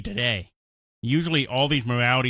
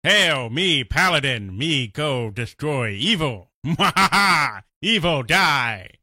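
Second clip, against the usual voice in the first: slow caveman-style paladin; dumb paladin voice. Acted. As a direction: play a slow, simple-minded hero. Mocking simple-minded RPG hero.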